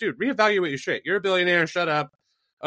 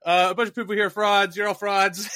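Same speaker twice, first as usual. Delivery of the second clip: higher, louder mocking gripe; lightly hammed-up complaint in a rapper's voice; mock rant imitating a rapper; 5 semitones higher, 3 dB louder than usual. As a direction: play the billionaire whining at the crowd. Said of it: "just be like".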